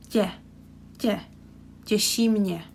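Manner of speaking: tě with a soft j sound, like tye. Shown as a demonstration. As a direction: break out tě then say Těší mě. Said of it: "we have j and e".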